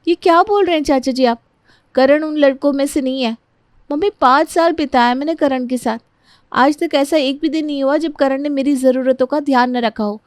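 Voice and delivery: put-on high-pitched, insistent young bride; earnest bride defending fiancé. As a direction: plead his case to the family, pitched high. Priya defends Karan to her uncle.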